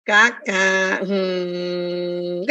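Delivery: a lightly voiced tolerant smile, head tilted; mother smiling at a child's mistake, mild restraint; knowing smile. Shown as a demonstration. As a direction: smile it through, patient but annoyed. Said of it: "kita tapi senyum".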